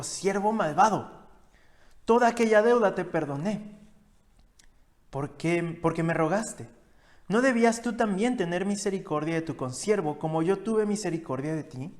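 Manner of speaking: a master rebuking an unforgiving servant in anger; angry master. Acted. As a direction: scold the wicked servant from above.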